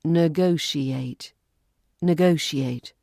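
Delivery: "Negotiate" said slowly, every syllable clear; slow teaching take; slow careful. Shown as a demonstration. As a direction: stretch it out to teach. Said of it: "four syllables".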